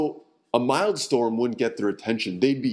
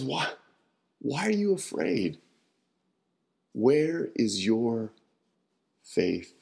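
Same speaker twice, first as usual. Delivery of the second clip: gentle question; slower than usual. Acted. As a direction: ask it tenderly, not as a rebuke. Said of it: "not so much as a rebuke as almost a question".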